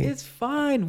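high, exaggerated Italian voice; Italian accent. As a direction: ham up a carefree Italian accent. Imitating carefree Italians.

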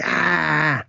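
high drawn-out mock "ah"; mock pained cry. Retelling Gunther stabbed in the back, mock pained cry. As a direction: imitate crying out from a stab. Monster cries out when stabbed.

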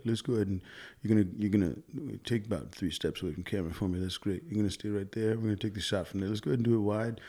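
lightly voiced mellow director; soft, mellow director impression; Dolph Lundgren impression. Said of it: "Dolph has, like, that voice".

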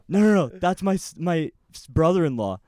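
high, loud stammering no no no; the sister's boyfriend shoves his friend away, loud and stammering; urgent protest. Retold or imitated. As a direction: block him, stumbling over the words.

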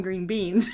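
"green beans" without punching green; her own stress. Shown as a demonstration. Wife defending how she says it, "green beans" without stress on green. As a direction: let "green" go unemphasized in "green beans". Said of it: "he emphasizes the fact that they're green".

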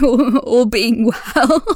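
laughing through the words; a nervous laugh under the words. Real, not acted. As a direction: chuckle it out nervously. Laughing while hedging hopes.

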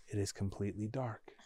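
whispered, barely audible; hushed. A narrator's reading. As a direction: drop to a spooky whisper. Narrator describing total darkness.

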